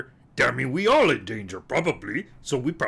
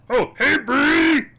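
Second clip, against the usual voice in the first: high drawn-out friendly call; slow, high hail across the room; 13 semitones higher, 5 dB louder, slower than usual. Acted. Calling out to approaching friend.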